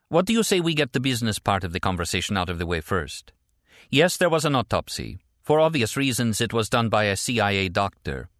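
matter-of-fact report in a lifted voice; Stella, businesslike. Acted. Voices Stella in phone dialogue.

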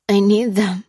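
pained, pleading moan; groaning whimper. A narrator's reading. Suffering prisoner begs Lucy for pills, whimpering. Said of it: "groaned Lopez with a whimper".

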